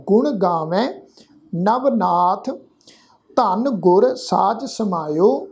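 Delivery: "ਨਵਨਾਥ" held, then silence before "ਧਨ"; pause after ਨਾਥ. Shown as a demonstration. Teacher showing where the pause falls, measured recitation. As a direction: recite slowly, with a clear rest after "ਨਵਨਾਥ". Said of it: "ਵਿਸ਼ਰਾਮ ਲਾਵਾਂਗੇ ਜੀ ਨਾਥ ਸ਼ਬਦ ਤੋਂ ਬਾਅਦ".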